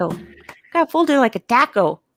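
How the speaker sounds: emphasized, hammed-up Minnesota accent. Repeating a line when asked to say taco again: exaggerated Minnesotan accent. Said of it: "emphasizing the Minnesotan accent for ta-, taco".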